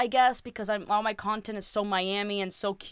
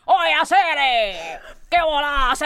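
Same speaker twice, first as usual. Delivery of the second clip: put-on cubanaza caricature in a heavy Cuban accent, louder; exaggerated Cuban accent; 5 semitones higher, 7 dB louder than usual. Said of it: "a super cubanaza".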